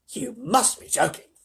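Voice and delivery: slow, high, stunned disbelief; Grandpa Joe. A narrator's reading. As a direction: draw it out, incredulous and high. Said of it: "gasped Grandpa Joe".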